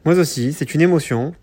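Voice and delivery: stiff, bad robot voice. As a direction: talk like a clunky android. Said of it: "avec des voix de robots nuls".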